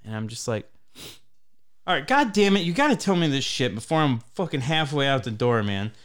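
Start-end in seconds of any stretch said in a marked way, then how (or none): 1.9-5.9 exasperated outburst, starting high; re-enacted fed-up telling-off; retold angry scolding.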